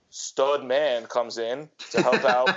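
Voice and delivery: slow, drawn-out sultry narration; mock dramatic drawl. Host mocking Hallmark plots to his co-host, slow teasing drawl. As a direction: linger on every word like a movie trailer. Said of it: "Why did you say it like that?".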